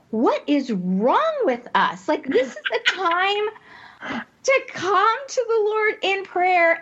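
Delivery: giggling through the words, high; can't stop laughing mid-sentence; laughing hysterically. Retold or imitated. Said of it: "laugh hysterically going".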